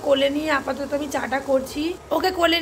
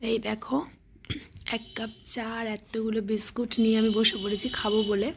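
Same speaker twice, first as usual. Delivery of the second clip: talking softly; 3 semitones lower, 5 dB quieter than usual. Real, not acted. Mother talking softly to viewers while her daughter sleeps, hushed. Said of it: "আস্তে কথা বলছি কারণ মেয়ে ঘুমিয়েছে".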